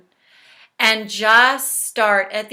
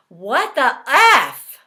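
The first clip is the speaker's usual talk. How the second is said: drawn-out, louder mock outburst; mock exasperation; 5 dB louder, slower than usual. Shown as a demonstration. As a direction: draw out the mock outrage. Demonstrates venting while tapping.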